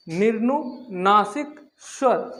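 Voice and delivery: निरनुनासिक drawn out slowly, each syllable clear; slow emphasized term. Shown as a demonstration. Teacher to students, stretching निरनुनासिक slowly. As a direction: lay out निरनुनासिक slowly for the class. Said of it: "तो दोस्तों, निरनुनासिक".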